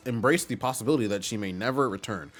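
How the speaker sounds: mannered, throaty steward voice; fussy old retainer. Acted. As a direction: play a worried steward reporting to his master. Voices Toadsworth.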